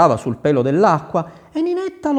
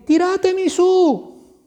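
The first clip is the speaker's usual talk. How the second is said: calling up the well; slower than usual. A narrator's reading.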